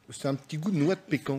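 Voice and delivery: quiet, mouth full of cake. Real, not acted. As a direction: chew and talk at once. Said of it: "désolé de vous parler à la bouche pleine".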